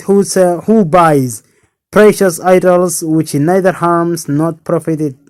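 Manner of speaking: calling out loud in the streets; shouted. Acted. Abraham calls out to the city, shouting. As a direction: hawk the idols at full voice, mock sale.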